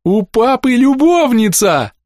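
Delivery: high, loud, slow gleeful shriek; delighted yell. A narrator's reading. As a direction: shriek it with glee. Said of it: "завопила с ещё большим восторгом".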